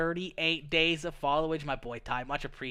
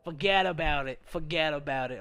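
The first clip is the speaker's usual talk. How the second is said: lightly imitated East Coast American accent; American accent imitation. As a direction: do a mock American catchphrase accent. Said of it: "how all you Americans talk down there".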